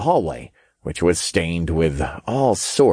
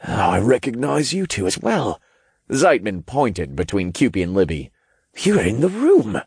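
startled man voice; 2 semitones higher than usual. Acted. Zeitman recognizing.

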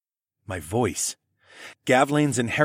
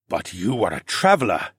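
lightly voiced reptile lord; 2 semitones lower than usual. A narrator's reading. Dino man questioning a traveler, lightly voiced and composed. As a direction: point it out with returning composure.

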